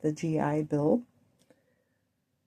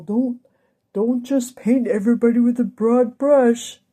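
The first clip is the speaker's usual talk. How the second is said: louder, higher, scolding himself; emphatic reminder; 4 semitones higher, 6 dB louder than usual. Shown as a demonstration. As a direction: say it firmly like a self-reproach. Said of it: "I just reminded myself".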